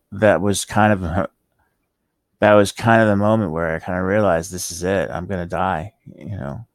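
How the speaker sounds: slurring the words a little; slurred speech from medication. Real, not acted. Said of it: "I kind of sound like a drunk right now".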